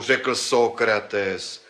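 normal talking voice

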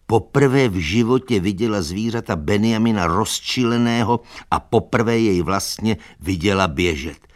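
plain reading voice

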